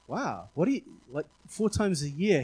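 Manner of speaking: mildly amazed, swooping intonation; lightly acted "wow" of disbelief; retold surprise. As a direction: react with a touch of puzzled wonder. Retold surprise at the man's answer.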